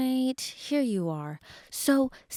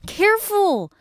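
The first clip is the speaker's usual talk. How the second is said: sharp warning; 5 dB louder than usual. Acted. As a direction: stop him moving, alarmed. Vet warning injured patient.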